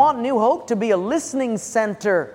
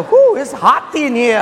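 a hint of flustered heat, a bit louder; mock flustered sweating; 4 semitones higher, 5 dB louder than usual. Pastor mimics anxious wallet-holder, lightly flustered complaint. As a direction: fan yourself and fluster. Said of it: "You go".

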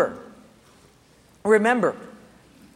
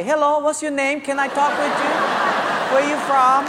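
eager greeting; 5 semitones higher than usual. Retold or imitated. Eager chatter with strangers.

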